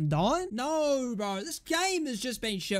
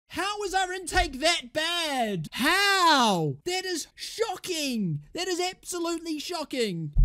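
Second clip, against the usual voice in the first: disbelief; 8 semitones higher, slower than usual. Real, not acted. Disbelief at his team's intake.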